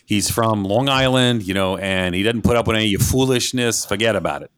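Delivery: father's Long Island New York accent. Shown as a demonstration. Son showing how his Long Island father talks, New York accent. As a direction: talk like a no-nonsense New York dad. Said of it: "This is the way my father talks".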